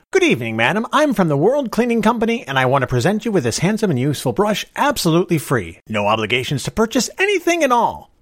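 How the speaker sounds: high, loud door-to-door sales patter; salesman pitch. Shown as a demonstration. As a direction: sell the free brush eagerly. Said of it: "I'll show you how to use it".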